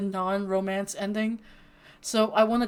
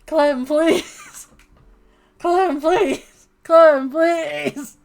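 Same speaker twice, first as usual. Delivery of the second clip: loud, high desperate plea; pleading shout; 8 semitones higher, 12 dB louder, much slower than usual. Real, not acted. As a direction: beg at the top of your voice. Pleading with character Clem.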